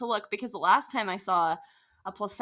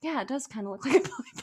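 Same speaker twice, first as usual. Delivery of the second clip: fast, laughing rush of words; laughing through it; 4 semitones higher, 3 dB quieter, much faster than usual. Retold or imitated. Describing the placenta, rushing and laughing. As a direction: giggle the words out quickly.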